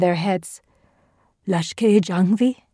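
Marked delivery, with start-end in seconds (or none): none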